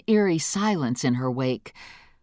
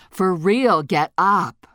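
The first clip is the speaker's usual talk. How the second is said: louder, pushy wake-up call; urgent loud call; 2 semitones higher, 5 dB louder, slower than usual. Acted. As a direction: insist she gets up now. Cookie urging her up.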